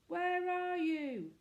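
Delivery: high, loud, slow call; shout. A narrator's reading. Manservant shouting up to hidden children, loud. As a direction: bellow it up into the dark. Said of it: "shouted Andrew".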